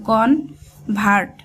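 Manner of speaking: কনভার্ট stretched slowly, syllable by syllable; slow drawn-out. Shown as a demonstration. Teacher breaking a word into sounds for students, slowly. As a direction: drag out কনভার্ট to show its parts. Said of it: "কন লেখার পর ভার্ট".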